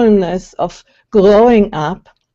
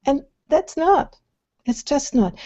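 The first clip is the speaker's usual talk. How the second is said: forced louder voice; 6 semitones higher, 6 dB quieter than usual. Shown as a demonstration. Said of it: "then comes out something like this".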